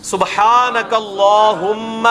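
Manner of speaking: very slow chanted سبحانک اللہم; میرے پیچھے دہرائیں; recite for repeating. Shown as a demonstration. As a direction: lead the class line by line, slowly. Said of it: "میرے پیچھے پیچھے".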